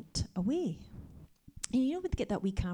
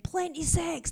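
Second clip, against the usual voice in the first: high, loud mock call of "Plenty sex"; a man's cheeky shout from the crowd; retold shout-out; 9 semitones higher, 4 dB louder, slower than usual. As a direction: call it out cheekily across the church. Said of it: "shouted out".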